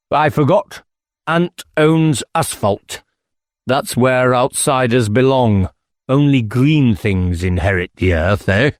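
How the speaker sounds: lightly voiced squire, dry and teasing. Squire mocking the inspector as an outsider, sly.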